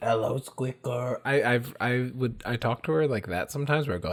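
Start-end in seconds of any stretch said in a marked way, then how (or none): 0.0-1.2 sinister clown voice. Showing how they greet the kitty in their room: Pennywise voice. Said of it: "that's the Pennywise voice".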